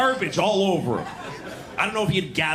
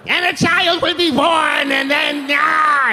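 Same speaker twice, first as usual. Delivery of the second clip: high loud prophecy building to a cry; prophesy in an ecstatic shout; prophetic shout; 11 semitones higher, 6 dB louder, slower than usual. Pretend. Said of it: "this is the noise I make when I come".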